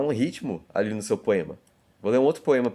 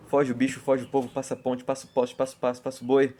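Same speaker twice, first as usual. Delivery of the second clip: faster train rhythm; 3 semitones higher, faster than usual. Shown as a demonstration. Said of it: "quando o trem tá mais rápido".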